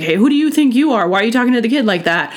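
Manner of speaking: an understated, hurried telling-off; mock confrontation. Imagining confronting the teacher over the kid, mock indignant.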